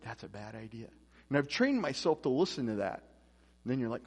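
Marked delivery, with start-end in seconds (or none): 0.0-0.9 low, hushed voice of conscience; quiet inner warning; little inner voice. Retold or imitated. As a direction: drop low and soft, like a thought in the head. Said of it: "I hear this little voice".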